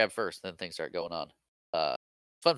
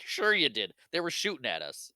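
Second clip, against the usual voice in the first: higher-pitched retort, falling away; mock bickering; 6 semitones higher than usual. Han and Leia bickering over escape, mock testy retort. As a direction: argue back, lightly acted. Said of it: "bickering back and forth".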